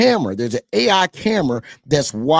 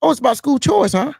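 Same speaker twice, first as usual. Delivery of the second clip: higher, mocking repeat of their slogan; sarcastic huh at the end; sarcastic echo; 9 semitones higher than usual. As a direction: throw their words back with scorn.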